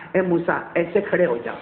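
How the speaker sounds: low, gentle instruction; loving. Acted. God tells Moses how to stand, lovingly. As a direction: tenderly show him how to stand. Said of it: "اتنے پیار سے کہا".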